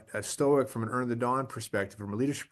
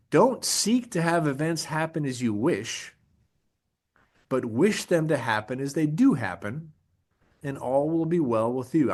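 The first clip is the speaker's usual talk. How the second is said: measured, deliberate recitation; first reading of a Stoic quote; slow quote reading. Shown as a demonstration. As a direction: read the quote slowly, weighing each phrase. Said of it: "an Epictetus quote".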